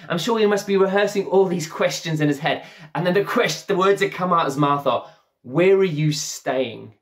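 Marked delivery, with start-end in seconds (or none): 5.4-7.0 slow awkward question. Retold or imitated. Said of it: "I'm like, "No, are you the Messiah?".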